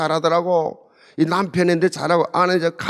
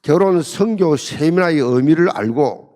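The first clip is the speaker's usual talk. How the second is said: prayer. Acted. Pastor praying aloud over the seminar attendees, earnest. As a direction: pray over the congregation unhurriedly.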